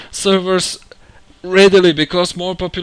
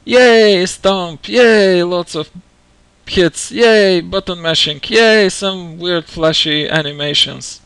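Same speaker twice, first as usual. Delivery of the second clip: sarcastic yay; slower than usual. Acted. Sarcastic cheers at gameplay.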